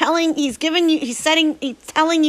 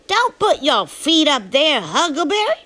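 scolding Miss Watson; 3 semitones higher than usual. Acted. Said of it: "Miss Watson would say".

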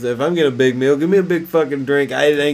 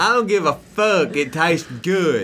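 defiant rant, raised pitch; belligerent drunk; 3 semitones higher than usual. Pretend. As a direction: bark it like a stubborn drunk. Stu character defiant.

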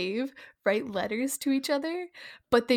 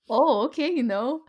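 hammed-up Minnesotan accent, a little louder; 3 dB louder than usual. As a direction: play along in a Minnesotan accent. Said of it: "you should do a Minnesotan accent".

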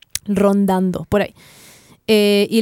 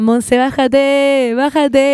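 drawn-out mock call from below; slow retold call, not truly shouted; imitated heckling friends; much slower than usual. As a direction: stretch it out like friends calling up teasingly. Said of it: "amigos de hueveo me gritaban".

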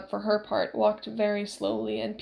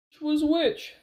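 high, louder anxious question; lost among corridors, panicking; panicked question; 5 semitones higher, 4 dB louder, slower than usual. A narrator's reading. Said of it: "Fezzik said".

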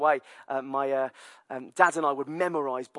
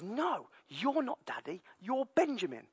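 put-on toddler voice; 7 semitones higher, 7 dB quieter than usual. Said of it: "And he says".

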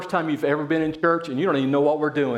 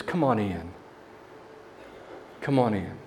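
low, tender invitation; acted patient father; gentle coaxing; 7 semitones lower, 7 dB quieter than usual. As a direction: coax him inside, pitched down low. Acts the father coaxing his son.

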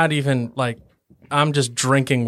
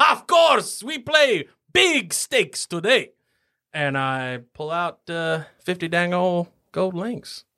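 laughing dwarf bravado; 4 semitones higher than usual. Acted. Dwarf laughing as he accepts the big bet, higher. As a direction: chuckle and raise the stakes.

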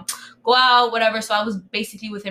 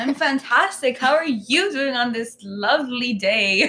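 chipper, overly polite host; sweet professional phone-line manner; customer service voice. Pretend. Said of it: "Our customer service voice is back".

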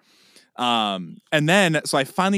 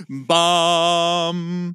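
mock startup chime; 3 semitones higher than usual. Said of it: "that sound that your computer makes".

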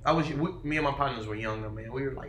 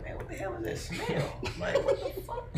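much higher, breathy laughing impression of a shocked older man; dad's friend, shocked; 5 dB quieter than usual. Telling friends how the dad's friend reacted: high, laughing shock. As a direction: play the dad's friend reeling from the smell, laughing. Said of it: "He's like".

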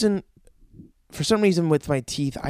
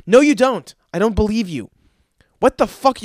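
loud, higher, indignant dentist; mock-angry disbelief; 3 semitones higher, 5 dB louder than usual. Dentist refusing to believe the patient brushes, mock-angry disbelief. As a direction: cut in with hammed-up outrage.

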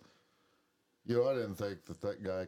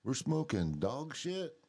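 higher, slow stoner disbelief; Cheech and Chong quote; 5 semitones higher, 3 dB louder, much slower than usual. Retold or imitated. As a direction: drag it out high, stunned. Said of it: "quote movie lines from Cheech and Chong".

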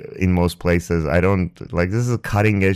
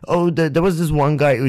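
mock roommate voice; 7 semitones higher than usual. Roommate voice, higher.

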